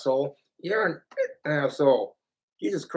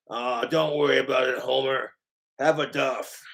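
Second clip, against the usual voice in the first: Moe; 5 semitones lower than usual. Acted. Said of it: "My Simpsons voices".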